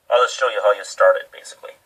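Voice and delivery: talking around a flashlight held in mouth. Real, not acted. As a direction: speak with a flashlight between your teeth. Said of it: "I got a flashlight in my mouth".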